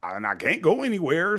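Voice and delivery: high, whining, helpless husband begging his wife; whiny dad pleading. Retold or imitated. Husband begging wife Mildred for sex, high helpless whine.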